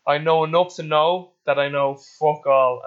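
slow, deliberate quote delivery; a friend's saying given a measured, savoured pace; slow quoted saying. Retold or imitated. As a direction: lay out the saying word by word, slowly. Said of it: "I always say it verbatim too".

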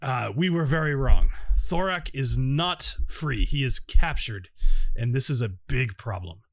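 lightly voiced character, slow and emphatic; Indiana Gnomes. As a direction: deliver grave news slowly, in a slightly altered voice. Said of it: "so he's got a different voice".

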